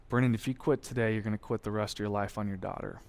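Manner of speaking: low-key, hushed warning while running beside him; quiet. Retold or imitated. Superintendent to struggling recruit mid-run, quietly firm. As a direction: drop the voice, steady and serious. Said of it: "he just says very quietly".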